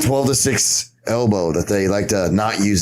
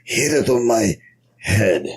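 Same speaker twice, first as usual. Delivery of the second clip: ancient master; 3 semitones lower than usual. Acted. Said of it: "fucking eighty years old".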